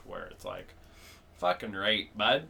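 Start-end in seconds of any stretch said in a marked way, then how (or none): 1.4-2.4 understated Ontario hick swearing; Ontario hick accent. Shown as a demonstration. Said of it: "there's, like, an Ontario, like, hick".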